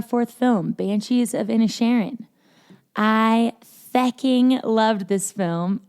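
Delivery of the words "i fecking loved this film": slow, drawn-out attempt at an Irish accent; bad Irish accent. Podcaster quoting the film's slang, attempted Irish accent. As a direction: have a clumsy go at Irish, drawing it out. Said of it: "I can't do an Irish accent".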